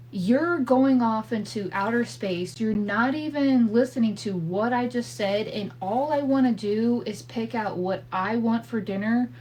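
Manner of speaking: exasperated wife hollering at her husband to listen. Retold or imitated. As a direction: call out to him, fed up and overwhelmed. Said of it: "And I holler out".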